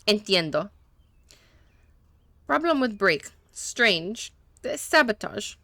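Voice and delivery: lightly put-on Spanish accent, broken English; a hint of a Spanish-speaking mechanic, eager to please; gentle Spanish accent, a little nervous; mechanic's Spanish accent. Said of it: "that was on purpose that he was talking that way".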